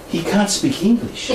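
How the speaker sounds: quoting the nun with a laugh breaking in; laughing through the quote. Retold or imitated. Telling the nun's complaint about his English, laughing. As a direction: retell the nun's line while cracking up.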